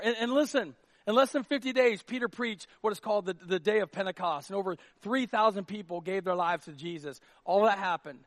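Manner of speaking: loud, high sermon climax; preaching at full force. Acted. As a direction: drive the point home to the crowd.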